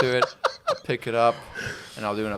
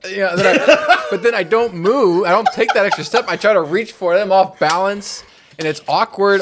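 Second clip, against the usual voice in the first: louder and higher, laughing through it; 6 semitones higher, 5 dB louder than usual. Real, not acted. Laughing while telling friends about her clumsiness. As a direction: laugh at your own clumsiness.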